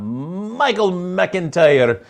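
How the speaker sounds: slow, drawn-out mock Scottish; playful bad Scottish accent; attempted Scottish accent. Shown as a demonstration. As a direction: stretch the name into a hammed-up Scottish accent. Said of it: "try to do that with a Scottish accent".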